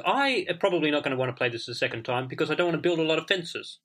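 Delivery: talking while eating; words around a bite of bread; mouth full. Real, not acted. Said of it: "Sorry, I'm still eating".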